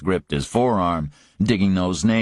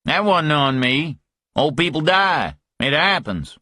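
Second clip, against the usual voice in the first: higher, heated Southern protest; angry denial; 8 semitones higher than usual. Acted. Griffin ending the talk with Parker, higher and heated. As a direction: shut him down hard.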